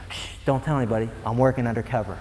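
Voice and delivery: hushed mock conspirator; softly, as a sneaky undercover believer; mock secret hush. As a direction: shush like a spy hiding his faith. Mocking secret undercover Christian.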